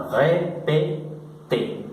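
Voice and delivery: "répété" said slowly, with a French r and closed é; French pronunciation. Shown as a demonstration. Teacher repeating the French verb for students, French "répété". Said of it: "el verbo se escribe así".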